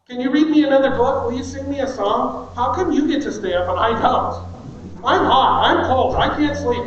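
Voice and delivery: put-on whiny kid. Kids' bedtime excuses voiced.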